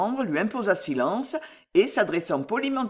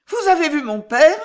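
high, loud eager question; high-pitched young woman asking; daughter's voice; 9 semitones higher, 8 dB louder than usual. A narrator's reading. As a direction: ask urgently after a father in a raised pitch. Daughter anxiously asks after father.

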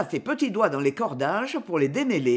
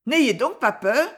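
louder, shrugging exclamation; exclaiming boy; 4 semitones higher, 4 dB louder than usual. Acted. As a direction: brush off the fear with a shrug. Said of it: "s'écria le petit bonhomme". (exclamation désinvolte, plus forte)

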